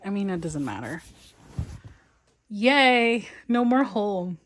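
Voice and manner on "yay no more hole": cheerful yay. Real, not acted. Cheering her fix.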